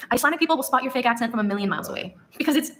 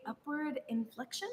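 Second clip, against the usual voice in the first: slow UPWARD INFLECTION, softer, tune lifting at the end; 3 semitones higher, 13 dB quieter, slower than usual. Shown as a demonstration. Accent video narrator showing Icelandic upspeak, upward inflection. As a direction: let "upward inflection" climb like a question. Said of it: "basic tenets of the Icelandic accent".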